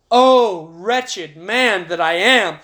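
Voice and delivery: loud "Oh", then slow lament; preacher's lamenting cry as Paul; anguished cry. Acted. Lament in Romans reading.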